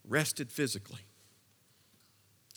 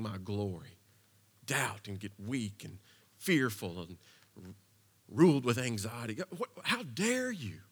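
mock outrage; 3 semitones lower than usual. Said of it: "God didn't say".

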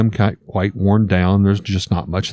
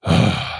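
troll sigh; 3 semitones lower than usual. Acted. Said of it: "let out a sigh".

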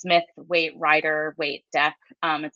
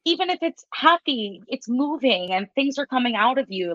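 higher-pitched, gentle reassurance; reassuring; 5 semitones higher than usual. Acted. Reader to a client crying in a reading, reassuring.

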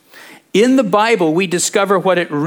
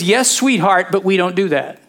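tender fatherly God; 4 semitones higher than usual. Retold or imitated. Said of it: "What God is saying is".

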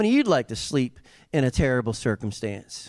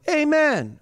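joyful amen; 13 semitones higher than usual. Shown as a demonstration.

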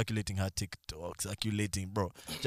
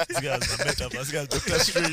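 laughing; 6 semitones higher, 6 dB louder than usual. Real, not acted. Laughing at friend's boast.

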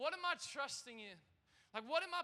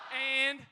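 And. shouted out loud on its own; 10 dB louder than usual. Acted. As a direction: bark the single word And. Preacher stresses Jesus' word.

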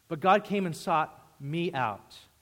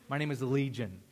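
demonic voice; 3 semitones lower, 3 dB quieter than usual. Retold or imitated. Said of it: "in that demonic, scary voice".

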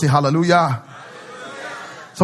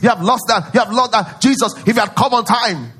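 wailing mourners; 6 semitones higher, 4 dB louder than usual. Retold or imitated. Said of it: "everybody was crying".

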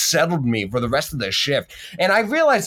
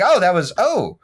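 higher, startled oh trailing off; 3 semitones higher, 3 dB louder than usual. Retold or imitated. Server recalling a customer's wink, startled. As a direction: caught off guard and lost for words. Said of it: "in my mind, I was like".

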